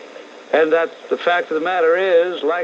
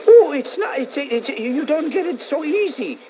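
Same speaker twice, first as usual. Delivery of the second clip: much higher, louder mock foreign voice; mocking her accent; 11 semitones higher, 3 dB louder than usual. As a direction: squeal it in a silly put-on accent. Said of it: "don't know what the heck accent it is".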